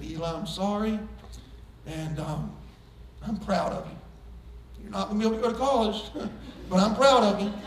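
humbly making peace; tender apology. Retold or imitated. Father conceding to his son, softly and sincerely.

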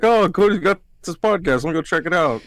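high, bright mock aunt. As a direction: mimic the aunt discovering the podcast. Aunt imagined finding the podcast.

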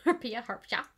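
Harpia harpia ending in "ja"; tentative echo, harpia as "har-pya"; attempted Greek pronunciation. Shown as a demonstration. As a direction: try Harpia harpia with a "ya" on the end. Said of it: "I'm trying to include the ja".

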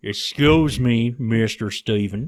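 slow Texan drawl; bad Texan accent. Doctor insisting to Mister Steven she's no grifter, mock Texan. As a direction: protest in a hammed-up Texan accent. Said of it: "my worst Texan accent".

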